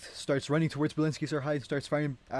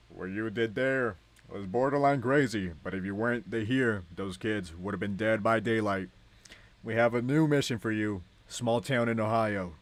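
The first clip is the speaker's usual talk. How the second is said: stern commander; 4 dB louder than usual. Acted. Commander gives new mission.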